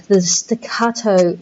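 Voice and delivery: "the staccato" said slowly, each syllable clipped apart; slow, staccato delivery. Shown as a demonstration. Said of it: "that sense of the staccato".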